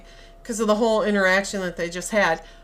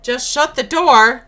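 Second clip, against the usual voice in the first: insistent, second plea louder and drawn out; exasperated urging; 5 dB louder, slower than usual. Retold or imitated. Viewer urging the woman to shut the door, exasperated. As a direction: press it harder the second time. Urging a film character to act.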